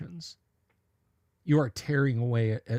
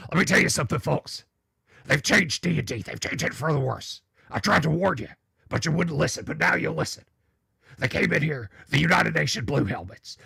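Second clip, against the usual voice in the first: lightly voiced conspiracy host, a bit louder; Alex Jones impression; 3 dB louder than usual. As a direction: rant like a paranoid talk-radio host warning the folks. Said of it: "I don't bust out the Alex Jones".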